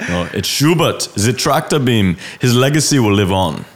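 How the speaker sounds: mock German, the Tractor Beam said zi Tractor Beam; German accent. Designer ends his German-accent bit with a toast. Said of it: "the German accent, that was me".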